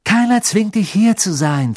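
high, loud, cutting retort; indignant hissed rebuke; angry hiss. A narrator's reading. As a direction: spit it out sharply at her. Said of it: "zischelte Hermine".

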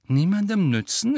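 strained, high echoed question; tense, indignant query. A narrator's reading. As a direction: throw the words back, tense and rising. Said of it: "entgegnete Ron mit angespannter Stimme".

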